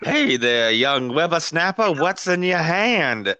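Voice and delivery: lightly voiced crusty old coot; old prospector. Old man NPC greets player.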